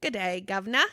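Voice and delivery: mock British greeting; British accent. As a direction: put on a playful British accent. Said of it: "how to do a British accent".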